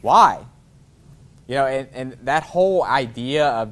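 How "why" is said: loud mock-baffled why; puzzled shout. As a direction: shout the question back, baffled. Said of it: "It'd be like".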